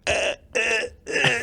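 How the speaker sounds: mocking stammer. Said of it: "that's Marco in a nutshell".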